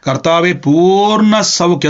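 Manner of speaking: drawn-out, earnest prayer words; slow declaration. Shown as a demonstration. Preacher shows the mother what to say over her daughter, slow and earnest. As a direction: say it slowly as a claim. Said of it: "കൈവച്ച് പറഞ്ഞോണം".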